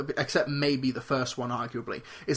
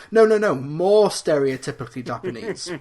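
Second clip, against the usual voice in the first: voice director; 2 semitones higher, 6 dB louder than usual. Retold or imitated. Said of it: "guy in the voice recording booth telling Ken".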